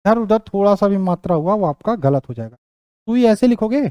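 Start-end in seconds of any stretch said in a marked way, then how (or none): 2.6-3.8 slow dictation. Shown as a demonstration. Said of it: "ये गलत है".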